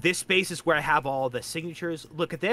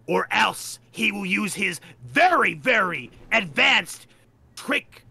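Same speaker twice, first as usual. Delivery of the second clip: mock ominous warning; 4 semitones higher, 3 dB louder, slower than usual. Joking threat about Co-Primate's powers.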